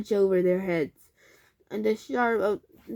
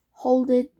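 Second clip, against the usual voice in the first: call to stop; 3 semitones higher, 6 dB louder than usual. A narrator's reading. Father halts the digging.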